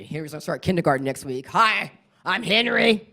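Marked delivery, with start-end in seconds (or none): 1.5-3.1 put-on slow, higher little-kid voice; small boy voice. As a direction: play a shy kindergartner introducing himself.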